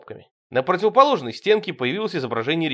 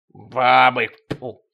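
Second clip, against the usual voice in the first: disgusted spit; 6 dB louder, much slower than usual. Acted. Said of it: "харкнул Тимоха".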